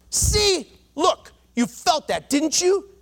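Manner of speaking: high-pitched, triumphant doctor; acted triumph. Doctor to the patient he just jabbed, triumphant. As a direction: pounce on the proof, pitch jumping up. Doctor proves his point.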